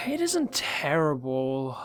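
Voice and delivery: plain reading voice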